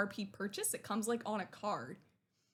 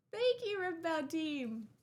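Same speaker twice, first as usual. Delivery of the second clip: slow, higher, moved thank-you; misty-eyed thanks; 6 semitones higher than usual. Real, not acted. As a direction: thank them while tearing up. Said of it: "I'm getting misty-eyed".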